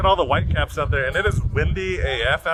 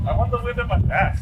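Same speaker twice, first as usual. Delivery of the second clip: shouting over wind; 9 semitones higher than usual. Real, not acted. Standing in strong wind on deck.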